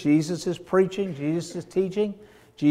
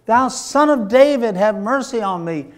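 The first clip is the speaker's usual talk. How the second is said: raised, high call that settles at the end; hollering; 6 semitones higher, 5 dB louder than usual. Acted. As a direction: call out insistently for mercy, short of full force. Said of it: "He immediately hollers again".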